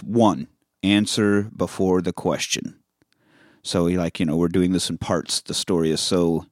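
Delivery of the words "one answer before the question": slow, measured title read; title card reading. Shown as a demonstration. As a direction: read it out slowly as a chapter heading. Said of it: "it says".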